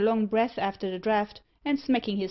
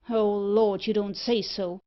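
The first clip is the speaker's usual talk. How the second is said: louder, frightened cry; trapped merchant crying out in fright; 4 dB louder than usual. Acted. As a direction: gasp it out in fright. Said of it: "in an agony of fright".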